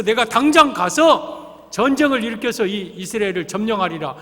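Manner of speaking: a touch of mock fury; acted huffing anger. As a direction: play a general storming off in a huff. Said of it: "그러고 막 씩씩거리고 가는데".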